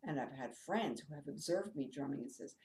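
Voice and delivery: normal talking voice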